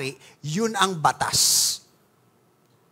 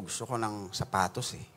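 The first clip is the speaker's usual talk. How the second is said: meek reply; 10 semitones lower, 11 dB quieter than usual. Retold or imitated. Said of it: "Sabihin mo".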